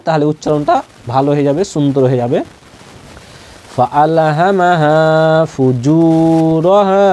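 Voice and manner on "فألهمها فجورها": slow, even chant with sustained long vowels; practice recitation. Shown as a demonstration. Teacher repeating for good pronunciation, slow drawn-out recitation. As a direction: recite slowly, holding the vowels out. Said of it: "কয়েকবার করে বলে নিব".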